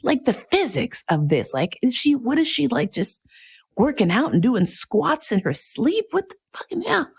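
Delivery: high, gawking disbelief at a stranger's body; like a stunned onlooker who can't believe what she's seeing; incredulous inner voice. Retold or imitated. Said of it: "And I'm like".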